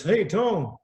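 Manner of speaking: mock Australian greeting; Australian accent. Actor hails the singer at the hotel, Australian accent. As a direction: hail him in an Australian accent. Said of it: "doing the Australian accent".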